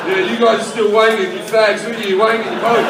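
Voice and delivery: mocking smug bloke. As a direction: gloat at the others like a smug winner. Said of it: "where he's just like".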